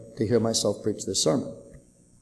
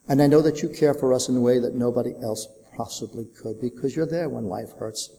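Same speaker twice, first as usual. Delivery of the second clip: prayer. Acted. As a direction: pray over the hurting gently. Pastor prays for congregation.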